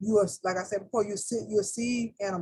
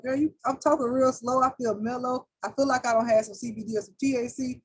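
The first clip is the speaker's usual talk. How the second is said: mellow spirit voice; 4 semitones higher than usual. Retold or imitated. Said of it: "my spirit just got comments like".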